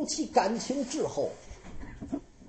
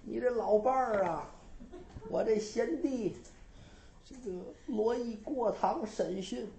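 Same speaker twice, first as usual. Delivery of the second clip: dream brother. Acted. Dead brother pleads in dream.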